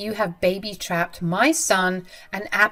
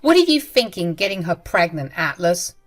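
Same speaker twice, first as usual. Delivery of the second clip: furious scolding; 3 semitones higher, 6 dB louder than usual. Acted. Mother scolding her son, louder and furious. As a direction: spit out the insults.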